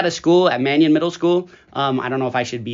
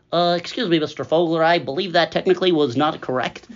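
lightly put-on voice of a pedantic teacher; Mister Fawcett. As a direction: gently imitate a colleague correcting someone. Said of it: "I'm Fawcett, and then he talks, he goes".

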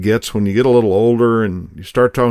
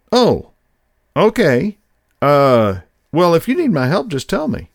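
stunned and hurt; 6 semitones higher than usual. Retold or imitated. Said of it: "looked back at me like I had shot him".

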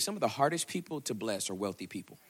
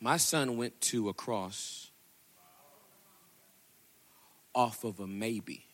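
voice of God; much slower than usual. Acted. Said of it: "To which he responds".

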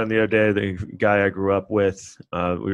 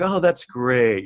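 slow, falsely polite "oh that's great"; mock-gracious congratulation; fake congrats; 5 semitones higher, much slower than usual. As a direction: sell it as forced politeness.

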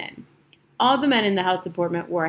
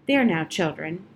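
a touch of gentle coaxing to his cats; gently; 2 semitones lower than usual. Acted. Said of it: "He spoke to them gently".

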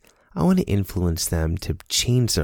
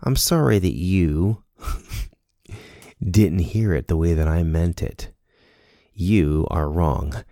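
mock smug apology.

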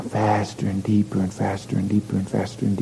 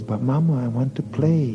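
put-on pitched-up whining child; whiny little boy; 5 semitones higher than usual. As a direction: plead like a small boy. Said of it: "Little boy says".

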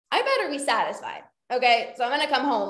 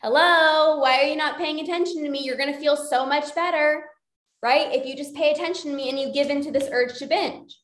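binge brain voice. Acted. Binge brain tempting the dieter, lightly coaxing. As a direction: lure them in, half-playful. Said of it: "your binge brain".

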